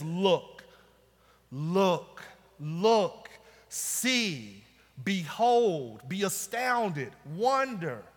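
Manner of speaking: weighty single words, spaced out; emphatic preacher quoting God; preached divine command. Retold or imitated. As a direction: land each command slowly with a pause after it. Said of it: "what God initially says back".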